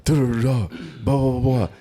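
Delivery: high-pitched retold tirade, tailing into blah-blahs; mock angry rant. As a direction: imitate a customer going off on the manager. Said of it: "going the fuck off on the manager".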